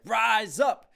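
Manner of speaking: loud, high shout of rise up; battle cry. Shown as a demonstration. Reactor shows the war-cry version, loud shout. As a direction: bellow rise up like charging into battle. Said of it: "like, we're going to war".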